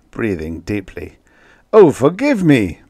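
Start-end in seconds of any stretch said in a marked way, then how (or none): 1.7-2.8 high, loud, sudden apology; blurted apology. A narrator's reading. Ambassador dabs spilt wine, blurting out a high apology. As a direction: blurt it out, pitched well up. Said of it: "blurted Magnan".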